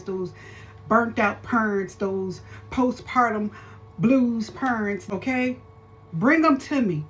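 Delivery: fervent preacher calling them in; preaching. Acted. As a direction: preach it like a pulpit call to the lost.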